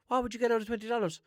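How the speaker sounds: high, fast, mocking disbelief; mock how useless it is; scoffing question. Real, not acted. Asking listeners what twenty dollars buys, scoffing.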